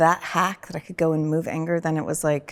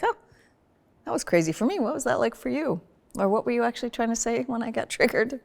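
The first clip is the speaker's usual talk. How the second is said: curious wondering; 6 semitones higher, faster than usual. Shown as a demonstration. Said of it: "actually kind of wonder".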